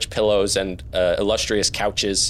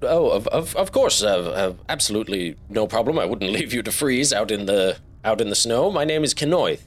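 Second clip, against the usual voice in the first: lightly voiced nervous host, stammering; a hint of a flustered host; flustered gracious host. Host welcoming the frozen travelers, flustered and gracious.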